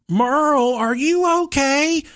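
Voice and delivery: high, drawn-out wifely call; worried wife calling. Retold or imitated. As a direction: mimic a wife checking through a door. Wife asks through cracked door.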